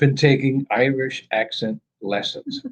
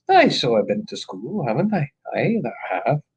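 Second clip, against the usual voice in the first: mock Irish accent. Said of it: "Irish accent".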